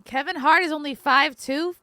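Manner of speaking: shocked disbelief, voice jumps up; can't believe the number; surprised. Real, not acted. Reading celebrity heights, shocked.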